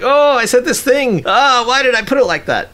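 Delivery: high-pitched mock anguish; imitated cringing regret. Host imitating partner hearing herself while editing, cringing regret. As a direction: wail it in a put-on high voice.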